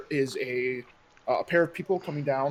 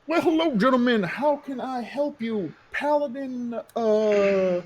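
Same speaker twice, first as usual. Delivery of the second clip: a lightly voiced, genteel town mayor, a bit higher; lightly voiced courteous mayor; smooth mayor; 3 semitones higher, slower than usual. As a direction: play the polite, slightly oily mayor.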